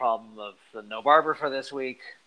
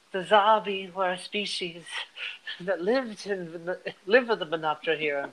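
annoying alien voice; 5 semitones higher than usual. Retold or imitated. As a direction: drone it out like an irritating insect. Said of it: "delivered by this super annoying voice".

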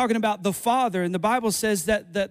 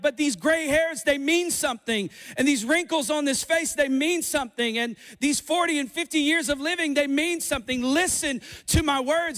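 frustrated parent; 5 semitones higher, 3 dB louder than usual. Retold or imitated. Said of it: "And you're like".

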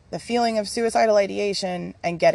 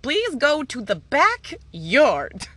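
slow, higher, deliberate; slow firm mom; 6 semitones higher, much slower than usual. Retold or imitated. Mom finally ordering kids to the backyard, slow and firm. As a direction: spell it out slowly like a fed-up parent. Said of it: "Finally, I'm like".

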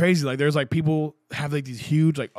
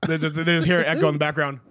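ordinary delivery

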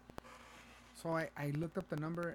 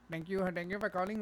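higher-pitched phone greeting; scam agent impression; 5 semitones higher, 3 dB louder than usual. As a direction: imitate a scripted phone operator. Retold scam caller greeting.

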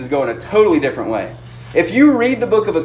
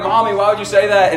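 fake seven-year-old; 4 semitones higher, faster than usual. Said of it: "the fake seven-year-old".

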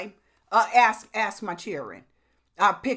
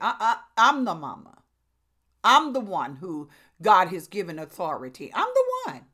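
stern mama; 6 dB louder than usual. Retold or imitated. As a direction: lay down the law as the mama. Mama voicing authority to her child.

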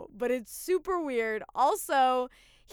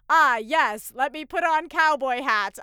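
mock alien; 6 dB louder than usual. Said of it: "he's like".

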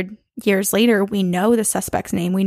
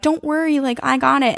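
lightly voiced reassuring kid, pitched up; higher-pitched imitation of a protective boy; protective big brother; 5 semitones higher than usual. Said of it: "Herman's probably being like".

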